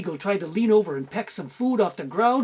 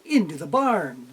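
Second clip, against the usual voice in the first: usual speaking voice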